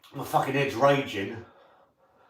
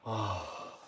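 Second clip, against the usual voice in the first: mouth burning from spicy food; 4 dB quieter than usual. Real, not acted. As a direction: talk through a burning mouth. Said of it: "my lips are on fire".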